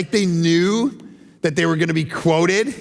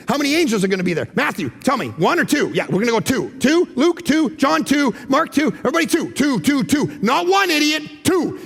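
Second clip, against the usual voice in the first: hammed-up church meeting; 4 semitones higher than usual.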